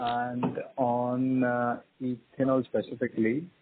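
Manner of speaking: muffled. Real, not acted. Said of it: "your voice is a bit muffled".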